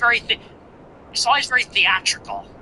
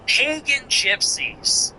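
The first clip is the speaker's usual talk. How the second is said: mock drama; 7 semitones higher, much slower than usual. Mocking quoted phrase.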